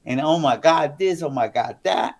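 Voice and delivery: imitating a mad partner's rant; retold anger. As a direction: act out her fed-up tirade. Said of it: "she was so mad".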